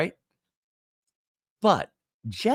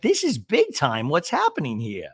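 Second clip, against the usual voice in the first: dramatic alarm; 5 semitones higher, 4 dB louder than usual. Retold or imitated. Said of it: "Gina pipes in and goes".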